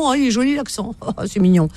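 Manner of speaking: high-pitched gushing with a little laugh; mock cooing. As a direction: coo as if charmed, in imitation. Mimics people finding an accent cute.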